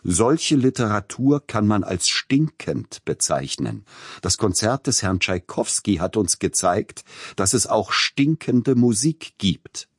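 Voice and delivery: quoting the critic with mock gravity, slowing on the punchline; mock solemn. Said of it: "sprach sehr ernsthaft, mit erhobenem Zeigefinger".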